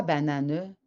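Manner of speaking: "banane" ending in an extra "neu" syllable; final E sounded. Retold or imitated. Child asking what it is, "banane" said ba-na-neu. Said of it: "c'est pas banane".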